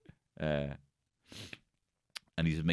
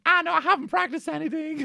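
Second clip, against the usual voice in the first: pretend Paul Hollywood. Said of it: "And then he'd be like".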